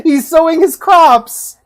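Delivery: loud, slow words through a big laugh; real burst of laughter. Real, not acted. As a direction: laugh hard and squeeze the words out. Cracking up at a pet video.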